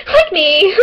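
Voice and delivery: high, loud laughing exclamation. Real, not acted. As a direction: blurt it out through laughter. Laughing jab at herself.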